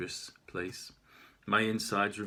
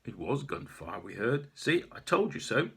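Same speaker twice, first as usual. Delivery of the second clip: calm. Acted. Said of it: "He says calmly to his colleague".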